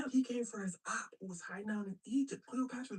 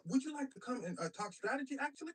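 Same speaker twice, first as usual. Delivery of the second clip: higher, hesitant invitation; mock bashful; 7 semitones higher, faster than usual. Mark asking Cleopatra over after a nudge, mock bashful. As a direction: fumble it like an awkward suitor.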